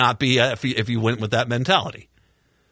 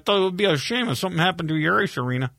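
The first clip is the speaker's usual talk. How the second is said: mock mobster threat; 3 semitones higher, faster than usual.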